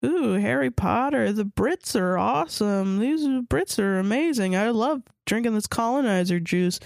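slow, starry-eyed gushing; gushing fangirl. Retold or imitated. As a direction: gush like a dazzled Anglophile fan. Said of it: "growing up and being like".

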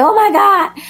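high, fast panicked squeal with a laugh; mock panic, laughing; freaked out. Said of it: "freaked out".

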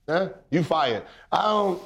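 normal talking voice

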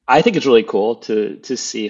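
choking on seltzer mid-sentence; words catch as the drink goes down wrong. Real, not acted. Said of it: "sorry, I'm choking on my seltzer".

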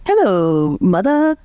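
put-on prim little British child saying hello; hammed-up faux British greeting; faux British accent. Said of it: "faux British accent".

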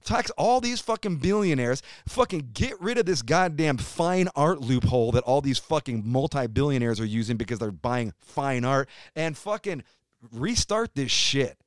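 heated, swearing rant about taxes; angry rant. Real, not acted. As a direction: vent it, fired up and pushing hard. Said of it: "Rant over".

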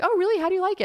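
very high small-talk voice; polite interest. Retold or imitated. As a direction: imitate an eager acquaintance up high. Retold small talk of acquaintance.

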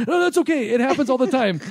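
high, quick reassurance; reassuring. Retold or imitated. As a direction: brush off the awkward moment brightly. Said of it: "the first words out of my mouth are".

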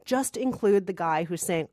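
ordinary talk

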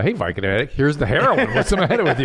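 mock tempter. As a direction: offer the drug like a cheerful pusher. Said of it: "it's a little more like".

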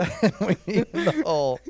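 laughing. Real, not acted. Repeating the silly game name.

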